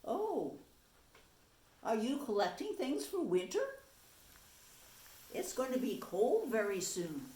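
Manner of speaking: gentle offer; friendly chipmunk. Acted. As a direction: invite a friend in for winter. Chipmunk invites the mouse.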